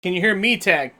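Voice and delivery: usual speaking voice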